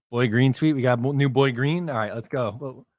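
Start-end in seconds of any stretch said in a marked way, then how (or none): none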